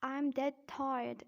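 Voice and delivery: slow British "tired" with no R; slow British-accent demo. Shown as a demonstration. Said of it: "in British accent".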